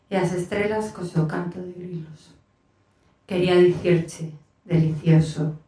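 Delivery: measured, unhurried poetry reading in Galician; poem recitation. Acted. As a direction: read it as a poem to a listening room.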